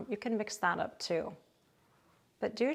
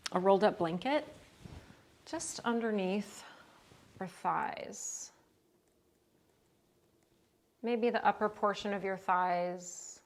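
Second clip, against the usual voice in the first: calm, unhurried yoga instruction with long pauses; guided relaxation. Real, not acted. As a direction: ease them gently into rest, leaving space between phrases. Leads restorative yoga relaxation.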